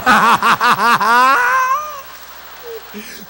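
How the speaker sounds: hearty burst of laughter; loud laugh. Real, not acted. Preacher laughing hard at his own joke, a big laugh.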